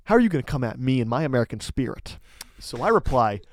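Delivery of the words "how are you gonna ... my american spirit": quick, mildly indignant challenge; mock offence, rattled off fast; a little angry. Teller indignant at being doubted as an American, a little angry. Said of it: "now I'm getting a little angry".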